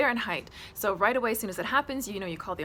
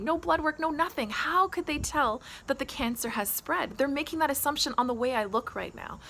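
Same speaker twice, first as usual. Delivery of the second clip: higher, urgent appeal, retold; insistent plea; 4 semitones higher than usual. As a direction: press loved ones to back you, mildly exasperated. Retells urging her parents to help.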